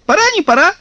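very high, rising sing-song; gleeful kikimoras. A narrator's reading. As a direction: toss it back like joyful sprites. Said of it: "обрадовались кикиморы".

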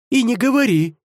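heads agreeing in chorus; high, loud dragon-heads chorus; many-headed hydra. Acted. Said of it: "согласились снова хором".

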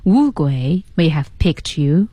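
slow phrase lifting upward on "you"; rising tone on you. Shown as a demonstration. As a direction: let "picked you" end on a rise. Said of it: "有一个声调".

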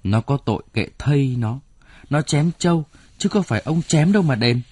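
protest, unwilling to give up the buffalo; begrudging protest. Acted. Wife objects to paying for the buffalo, indignant. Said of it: "Bà Thu nghe vậy xót của".

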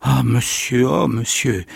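overwhelmed, barely getting the words out; stammering joy. Acted. The old man greeting his grandson's friend, stammering with joy. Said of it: "il bégayait".

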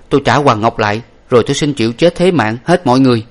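self-blaming hero. Acted. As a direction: take all the blame on yourself. Hero blames himself.

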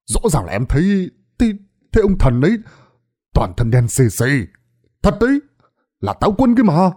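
high, urgent insisting voice, begging to be believed; pleading young villager. Acted. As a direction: swear it's true, voice climbing high. Đồng insists he saw the god. (giọng cầu xin, cao và gấp gáp)

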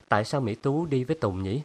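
ordinary delivery

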